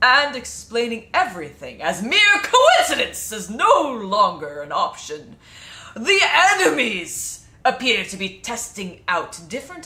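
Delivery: loud, booming put-on voice. Reading a mission briefing as an absent player: impression of Janris. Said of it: "my best impression of Janris".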